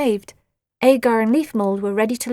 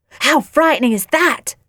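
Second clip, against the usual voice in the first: hopeful question, raised in pitch and volume; 5 semitones higher, 6 dB louder than usual. A narrator's reading. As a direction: ask it eagerly, fishing for a scare. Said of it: "asked Nelly hopefully".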